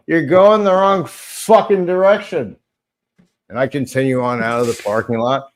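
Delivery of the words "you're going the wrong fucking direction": annoyed call-out. Retold or imitated. Retells shouting at a driver.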